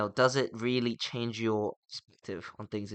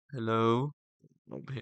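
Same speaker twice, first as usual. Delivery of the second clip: mocking imitation; 3 dB quieter than usual. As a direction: imitate a friend's put-on smooth voice. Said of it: "'cause you'll be like".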